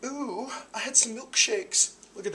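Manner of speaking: very high, loud mock squeal; playful falsetto. Joking about old Steve's size, playful falsetto. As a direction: play it up in a silly high voice.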